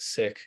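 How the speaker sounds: Sikh said with a short i, like "sick"; correct Sikh pronunciation. Shown as a demonstration. Clarifying right off the bat for the community, Sikh pronounced like "sick". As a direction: make Sikh rhyme with "pick". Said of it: "is the correct pronunciation".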